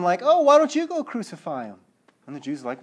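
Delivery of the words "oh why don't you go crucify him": raised, louder mocking taunt; lightly acted jeer. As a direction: imitate someone making fun. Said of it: "still kinda making fun of him".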